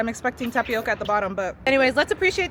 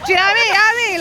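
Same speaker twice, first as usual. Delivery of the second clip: high, loud mock Liverpool accent; hammed-up Scouse, playful; 9 semitones higher, 7 dB louder, faster than usual. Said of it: "try to do a Liverpool accent".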